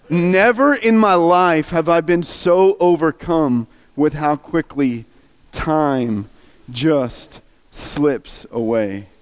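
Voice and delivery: slow, emphatic lament that sinks away; overcome. Retold or imitated. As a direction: start strong, let each word slow and drop. Retelling being overcome by the film.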